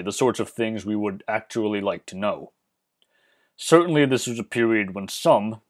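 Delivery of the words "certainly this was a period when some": "some" picked out with emphasis; stress on SOME. Real, not acted. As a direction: lean on the word "some". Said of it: "emphasis on the word some".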